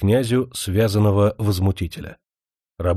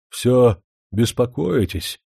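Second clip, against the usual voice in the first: ласково; 3 semitones higher, much slower than usual. Acted. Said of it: "ласково спросил он".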